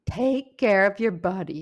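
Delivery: put-on half-hearted Australian accent, like a public health ad; mock Australian ad. Quoting a class video to her friend in a put-on Australian accent. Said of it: "a strange accent, but it was in an Australian accent".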